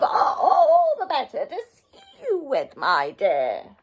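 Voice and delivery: sly wolf as granny. Acted. Wolf answering Red about his eyes, chuckling granny voice.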